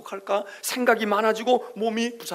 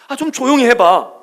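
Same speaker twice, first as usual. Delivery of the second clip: 조용히 hit hard and loud with a falling end; loud exasperated hush; 5 semitones higher, 10 dB louder than usual. Acted. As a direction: snap the order out loud. Loud hush after whisper. (크게 "조용히"를 세게, 끝을 내리며)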